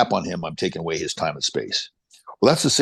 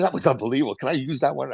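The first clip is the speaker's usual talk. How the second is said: higher-pitched imitation of excitement; fired up; 7 semitones higher than usual. Guest asking to borrow the host's line, fired up. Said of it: "he's all fired up".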